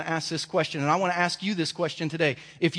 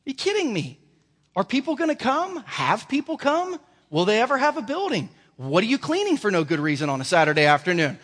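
God mocking the worry; incredulous God; 4 semitones higher than usual. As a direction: ask like the answer is obvious. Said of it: "God said".

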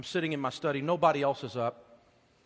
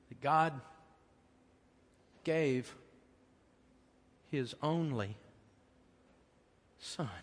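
tearful. Retold or imitated. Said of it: "I was just crying".

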